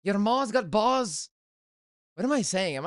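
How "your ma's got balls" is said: mock Scottish accent. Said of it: "they roll the R's".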